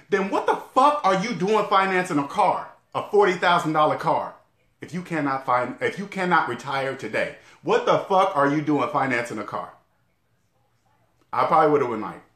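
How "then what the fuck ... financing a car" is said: blunt scolding. Retold or imitated. Imagined advisor scolding him about a car, blunt and cursing. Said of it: "I wish somebody would have said this".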